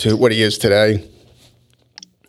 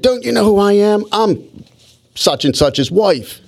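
much higher-pitched mock indignant woman; imitating crazy lady; 9 semitones higher than usual. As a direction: mimic an entitled wife pulling rank. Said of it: "there's this crazy lady here".

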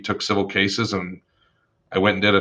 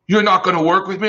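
much higher and louder, mock offended; whiny indignant lawyer; 10 semitones higher, 4 dB louder than usual. Opposing lawyer complaining to the young attorney, mock offended. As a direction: play the wounded opposing counsel.

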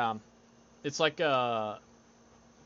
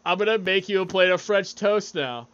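higher, louder acted reply; mock eager announcement; 6 semitones higher, 5 dB louder than usual. Friend imitates someone obeying his text, mock eager and loud. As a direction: announce it loudly, playing the obedient servant.

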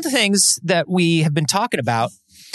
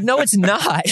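imitating the doctor; 6 semitones higher, slower than usual. Doctor voiced in retold checkup.

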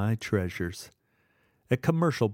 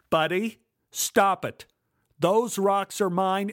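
angry demand; 7 semitones higher, slower than usual. Acted. Kid confronting thief in garage.

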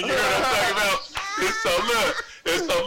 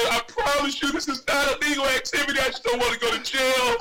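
higher, urgent fake begging; mock frightened plea; 4 semitones higher than usual. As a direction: act scared and beg your innocence. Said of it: "I'm over here like I'm spooked".

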